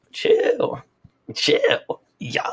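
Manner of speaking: hushed, breathy chill chill yo; half-whispered plea to calm down; mock whisper. Van guy hushing the girl in a mock whisper.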